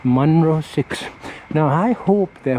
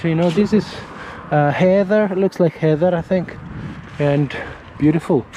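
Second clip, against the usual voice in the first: put-on crazy Scottish accent; 4 semitones higher than usual. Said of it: "speak with a crazy accent".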